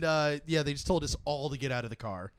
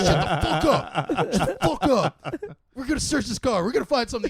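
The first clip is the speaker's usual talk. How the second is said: loud, higher mock cop yell; imitated angry cop; 6 semitones higher, 7 dB louder than usual. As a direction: play a cop losing patience with snickering kids. Cop angry at snickering kids.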